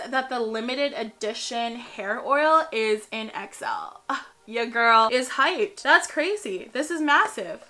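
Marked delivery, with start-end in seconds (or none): 4.1-7.6 excited. Real, not acted. Hyped about big bottle.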